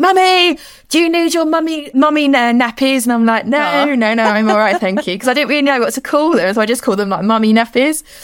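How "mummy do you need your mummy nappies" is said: put-on high, drawn-out shout at full voice. Parent retelling her child's question in a supermarket, retelling a shout at full volume. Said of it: "at the top of her voice".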